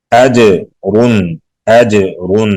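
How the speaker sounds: "اجرن" slowly, with a firm bouncing j; hard articulation. Shown as a demonstration. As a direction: hit the j of "اجرن" hard and let it rebound. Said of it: "سختی سے پڑھیں گے".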